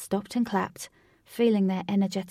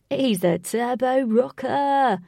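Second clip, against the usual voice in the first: excited shout; 4 semitones higher, 7 dB louder, slower than usual. Acted. Lynx cheering at the dance.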